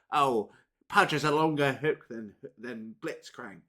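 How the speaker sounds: mock a typical geek with a dopey put-on voice; goofy know-it-all gamer geek impression; stupid geek voice. Player mocking people who compare League and Dota, stupid geek voice. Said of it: "just my stupid voice for some typical geek".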